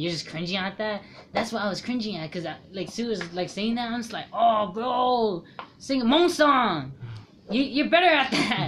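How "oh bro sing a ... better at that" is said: mock cheer. Mocking friend singing badly.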